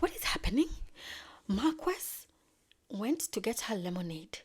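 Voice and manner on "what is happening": high breathless whisper; whispered bewilderment. Retold or imitated. Queen whispering in confusion at the scene. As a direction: hush it out in confusion. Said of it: "she's like".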